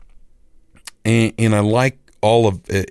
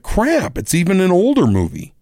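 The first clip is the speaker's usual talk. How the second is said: pitched way up, crying out crap; high squeaky dismay; 9 semitones higher than usual. Retold or imitated. Telling listeners his streaming letdown, mock high squeak. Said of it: "I'm like".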